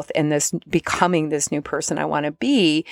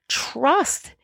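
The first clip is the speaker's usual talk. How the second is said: breathy whispered "trust"; 8 semitones higher than usual. Shown as a demonstration. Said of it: "whispered trust".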